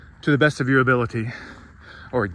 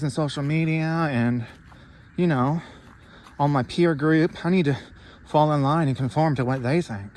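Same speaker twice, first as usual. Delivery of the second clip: mock docile sheep; 3 semitones higher than usual. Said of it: "make me think".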